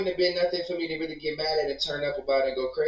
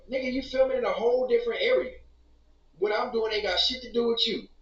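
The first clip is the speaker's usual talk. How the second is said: heated retort; 7 semitones higher than usual. Real, not acted. Heated reply.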